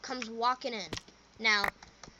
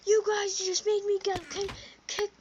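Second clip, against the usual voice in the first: put-on high, stammering angry drunk; stuttering; 9 semitones higher, 5 dB louder than usual. Drunk guy blaming the kids, high stammering. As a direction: stumble over the word kick, louder. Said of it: "My man was stuttering".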